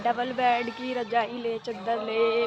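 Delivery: lightly voiced street hawker's drawn-out call; a hint of a vendor's slow sales cry; imitated quilt hawker. Vlogger echoing a passing quilt seller, light hawker imitation. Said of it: "इसकी आवाज़ आ रही होगी".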